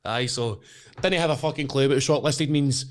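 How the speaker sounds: normal talking voice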